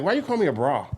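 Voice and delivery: a laughing, mock-offended comeback; laughing retort. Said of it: "I'm like".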